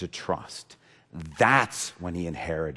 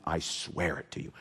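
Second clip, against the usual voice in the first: soft; 4 semitones lower, 8 dB quieter than usual. Acted. Repeated promise, soft then strong.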